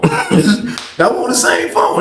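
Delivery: very slow, drawn out request. Shown as a demonstration. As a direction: stretch every word out. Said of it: "That's all I said".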